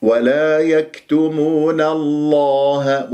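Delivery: يكتمون الله drawn out, thin nun, heavy lam; light nun. Shown as a demonstration. Teacher gives students the correct model, light nun in يكتمون. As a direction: recite ولا يكتمون الله slowly, nun kept light. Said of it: "فإذا النون مرققة".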